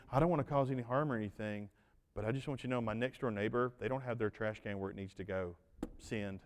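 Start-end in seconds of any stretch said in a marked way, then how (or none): 2.1-6.4 tattling emailer. Retold or imitated. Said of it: "they're like".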